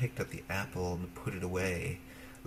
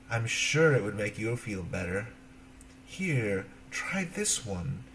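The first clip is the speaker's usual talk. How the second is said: lightly voiced coaxing old witch, slowing at the end; a sly crone offering the apple; witch's voice.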